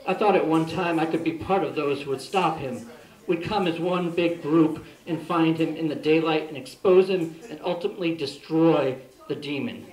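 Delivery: emphatic recital in measured phrases; poem reading. Real, not acted. Poet reads modern day Van Helsing poem to audience, emphatic recital. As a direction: read it out as an earnest personal poem.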